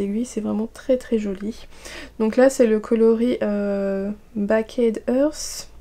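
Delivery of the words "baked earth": slow English words in a French accent. Real, not acted. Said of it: "Désolée pour mon accent". (anglais avec l'accent français)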